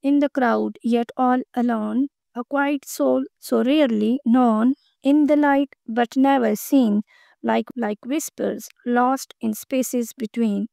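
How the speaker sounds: slow recitation, each line drawn out; poem reading. Acted. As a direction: read it like a poem to the class. Reads invisible poem aloud. (धीमा कविता पाठ)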